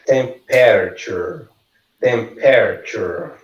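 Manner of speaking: Temperature slow, "TEM-PER-chur"; pronunciation model. Shown as a demonstration. Teacher having the class repeat, Temperature slowly modelled. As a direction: stretch Temperature into three clear syllables. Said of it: "vocês vão repetindo".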